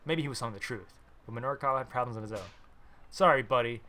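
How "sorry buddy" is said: louder firm sorry buddy; firm loud dismissal; loud refusal. A narrator's reading. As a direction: brush him off loudly. Refusing pushy stranger.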